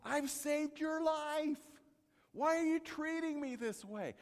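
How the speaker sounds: the donkey protesting its beating; donkey crying out. Retold or imitated. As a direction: cry out hurt and wronged. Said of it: "And he says".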